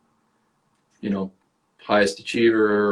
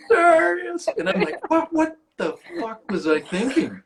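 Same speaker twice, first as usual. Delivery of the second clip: self-mocking dread. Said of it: "I was like".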